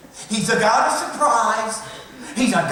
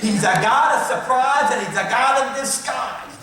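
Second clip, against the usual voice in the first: playful Southern accent; 3 semitones higher, 5 dB louder than usual. Shown as a demonstration. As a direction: say it Southern-style so it rhymes. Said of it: "I love to say it in my southern accent".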